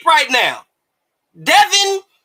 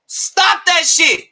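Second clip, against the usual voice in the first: slow scolding; 2 semitones higher, much slower than usual. Real, not acted.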